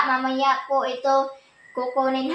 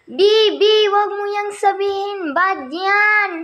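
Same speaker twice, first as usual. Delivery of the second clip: put-on high scolding to baby; 6 semitones higher than usual. Scolding baby for bad words.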